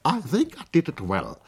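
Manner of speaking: high, loud cheerful English; bright young painter; English girl. Acted. (junge Engländerin, hoch und laut)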